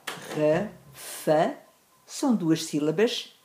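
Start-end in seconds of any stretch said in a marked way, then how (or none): 0.1-1.6 Ra, fa said apart without emphasis; unstressed syllables, separated. Shown as a demonstration. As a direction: give Ra and fa as two detached syllables. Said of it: "átonas".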